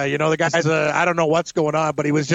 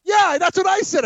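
squeaky mock imitation, much higher; mock high neighbor voice; 12 semitones higher than usual. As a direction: ham up the creepy neighbor in a high voice. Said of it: "he's like, he goes".

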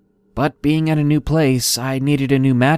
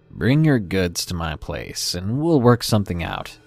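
gruff man; 4 semitones lower, 4 dB quieter than usual. Acted. Gruff seller interrupts.

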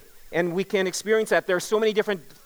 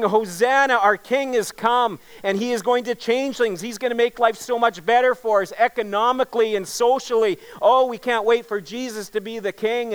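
higher-pitched, eager retelling of a cheering crowd; excited crowd praising; 4 semitones higher than usual. Retold or imitated. Preacher retells Palm Sunday crowd's praise, mildly excited. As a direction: imitate a hopeful crowd, voice lifted but not shouting. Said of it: "the people were yelling and they were praising".

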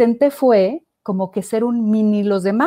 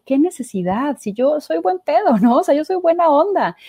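higher and louder, mock-offended protest; indignant; 7 semitones higher, 3 dB louder than usual. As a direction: protesta ofendida, sube el tono. Indignant reaction to online hate. (indignada ante los mensajes en redes, más aguda y fuerte)

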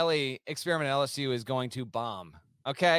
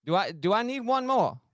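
higher, lightly faked Southern accent; 4 semitones higher than usual. Contestant checking his trivia count, fake Southern accent. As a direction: ask in a mock Southern accent. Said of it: "in a fake Southern accent".

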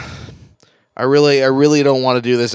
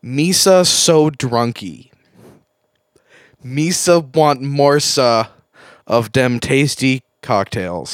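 put-on very slow, drawn-out baby-talk character; 4 semitones lower, 3 dB louder, much slower than usual. Reluctant host attempts the ad, slow put-on character voice. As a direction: drag out each word in a silly character voice.

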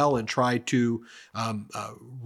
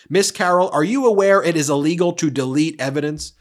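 accusing lawyer; 3 semitones higher, 5 dB louder, faster than usual. Retold or imitated. Lawyer accusing the witness, imitated loud pounce.

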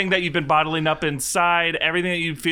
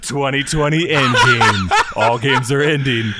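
trailer climax shout; 5 dB louder than usual. Acted.

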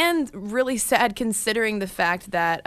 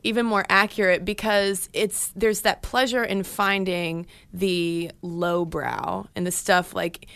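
bored ironic hipster. Acted. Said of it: "I like your hipster voice".

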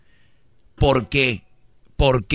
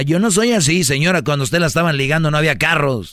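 mock indignant woman, higher pitched; indignant lady caller; 4 semitones higher, 3 dB louder than usual. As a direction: imitate a caller protesting, higher. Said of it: "Te va a llamar una señora". (imitando a una señora indignada)

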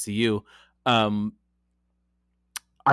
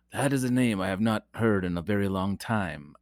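a hint of a solemn old mentor; barely-there mock Jedi gravitas; Obi-Wan Kenobi impression; 2 semitones lower, 4 dB quieter than usual. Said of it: "I wanna cue the, the Obi-Wan Kenobi".

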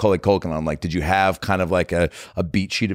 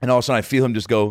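normal talking voice

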